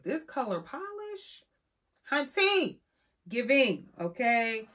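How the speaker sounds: hunty, it's giving; sassy praise. Real, not acted. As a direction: gush with sass.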